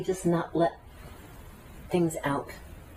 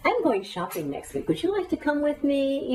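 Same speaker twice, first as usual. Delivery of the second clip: kind offer; 8 semitones higher than usual. Acted. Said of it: "but we don't go up and say".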